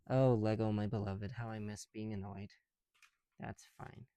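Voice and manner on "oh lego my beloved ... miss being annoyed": mock devotion. Mock ode to Lego bricks.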